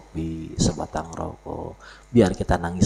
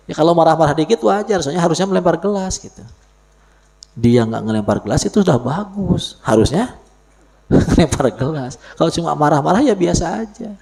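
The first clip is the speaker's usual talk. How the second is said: excited loud; 9 semitones higher, 6 dB louder than usual. Real, not acted. Joking loudly about wife anger.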